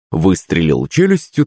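ordinary delivery, nothing marked

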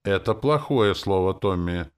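stern rebuke. A narrator's reading. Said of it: "строго проговорил Гронк".

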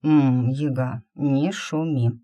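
drowsy lip-smacking murmur; sleepy mumble. Acted. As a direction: murmur contentedly half asleep. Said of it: "сладко причмокнул змей".

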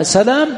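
سلام with a single L, salām; سلام as sa-LAAM; light lam. Shown as a demonstration. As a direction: keep the lam in سلام undoubled. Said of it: "سلام يقرؤون بالتشديد".

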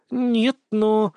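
dejected, drawn out, trailing off; glum drawl. A narrator's reading. Granddaughter glumly objecting to grandmother, trailing off. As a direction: drag it out gloomily and trail away. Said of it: "уныло протянула".

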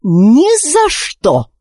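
slow, high, pressed refusal; through gritted teeth. Acted. Queen refusing through gritted teeth, slow and cold. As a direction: grind it out through clenched teeth. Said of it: "процедила сквозь зубы королева Психора".

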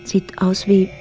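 rising fear at what dangles below; growing dread. Acted. Jeanette peering into the dark shaft, growing fear. Discovering something hanging in shaft.

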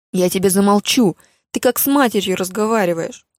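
loud furious retort; enraged mother. Acted. Mother yelling back at Lia, loud fury. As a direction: snap back, outraged and loud.

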